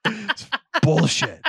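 high, drawn-out exasperated cry; exasperated outburst. Real, not acted. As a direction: burst out in outrage, stretching the words. Comic outburst over the word.

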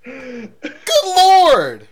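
high, loud cry of disbelief; exasperated yell. Real, not acted. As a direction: yell it to the heavens. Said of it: "Let me compose myself for a second".

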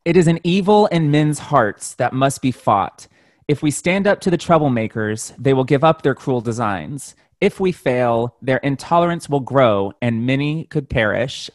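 lightly voiced Storm line; dramatic quote read; quote read in character. Shown as a demonstration. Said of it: "It is so hard not to say that in character".

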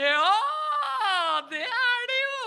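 high, loud, gushing agreement; eager giving in. Retold or imitated. Pastor giving in to the chores, high and loudly eager. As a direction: cave in with over-eager delight. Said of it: "Og jeg bare".

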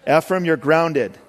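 a mock-stern dad's verdict; mock angry dad. Dad grounding his son Ephraim, mock angry. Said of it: "I'm just being angry".

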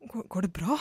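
hesitant, stammered check-in, a touch nervous. Retold or imitated. Dad checking on his shocked child, mildly nervous. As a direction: imitate a worried dad, softly unsure. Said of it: "Skikkelig nervøst".

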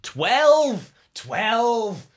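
high, loud triumphant yell; exult, then complain at full pitch; excited shouting. Real, not acted. Player finally rolls twelve after bad luck, real excited shout. Player cheers a good dice roll.

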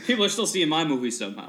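fast, laughing, bemused; laughing Affleck impression. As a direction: rattle it off through a laugh. Voicing Ben, laughing.

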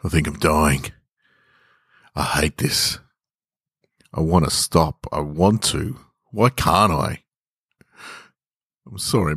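put-on a weak, fading young man pleading with his parents; lightly voiced dying son, apologetic and broken; understated dying son saying sorry. Dying young man's monologue.

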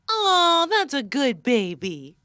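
slow, lightly cooed praise for a dog; talking to a dog. Acted. Host in guessing game praising a dog, pet voice. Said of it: "No, it's a dog named Baby".

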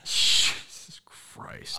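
breathy whispered Jesus Christ; whispered exasperation. Real, not acted. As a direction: whisper it in disbelief. Exasperated reaction.

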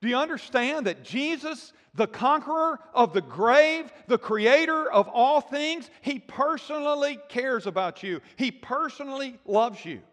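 imitating John in wonder, exclaiming to the listeners; awed excitement. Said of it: "like John is saying".

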